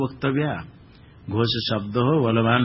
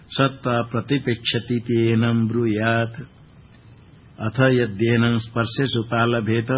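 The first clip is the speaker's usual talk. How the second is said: scripture recitation; 2 semitones lower than usual. Shown as a demonstration. Teacher recites the Upanishad verse to students, intoned. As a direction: intone the verse steadily like a priest.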